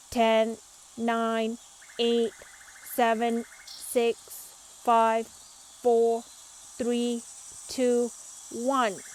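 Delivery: loud counting-down robot voice; robot shouting. A narrator's reading. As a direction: call the count across the yard. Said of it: "shouts Robo Pete".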